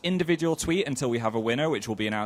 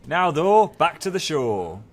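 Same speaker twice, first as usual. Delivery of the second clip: put-on northern English accent, slow and drawn out; 4 semitones higher, 5 dB louder, much slower than usual. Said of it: "trying to relive my northern roots".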